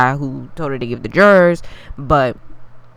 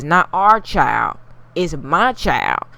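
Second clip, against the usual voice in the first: put-on "my child" said slow and pointed; slow stress on my; slower than usual. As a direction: lean on "my" in "it's my child". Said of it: "she says".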